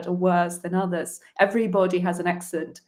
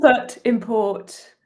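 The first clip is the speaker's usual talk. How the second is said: "Input" and "import" said slowly, a bit higher, each stress pressed clearly; slow, careful example words showing the shifting stress; stress shift demo; 4 semitones higher, slower than usual. Shown as a demonstration. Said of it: "it changes".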